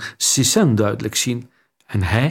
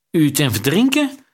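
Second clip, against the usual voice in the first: panicky, nasal repeat; 4 semitones higher than usual. A narrator's reading. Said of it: "herhaalde hij".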